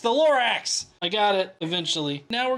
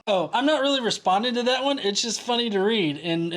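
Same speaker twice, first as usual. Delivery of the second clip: ordinary delivery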